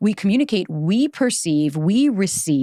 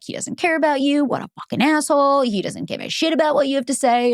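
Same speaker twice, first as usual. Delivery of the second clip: indignant inner narrative; 6 semitones higher than usual. Retold or imitated. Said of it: "made a narrative of".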